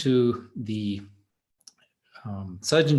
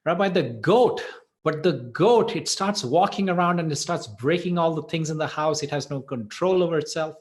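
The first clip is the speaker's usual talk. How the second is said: higher, louder, acted-out exasperated plea; mock tearful complaint; 5 semitones higher, 4 dB louder than usual. Man complains to the rabbi about the goat, mock upset. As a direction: plead in distress, but without real sobs. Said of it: "he's still crying".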